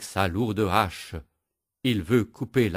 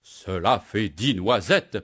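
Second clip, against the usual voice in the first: crying out; 3 dB louder than usual. Acted. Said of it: "crie le bûcheron".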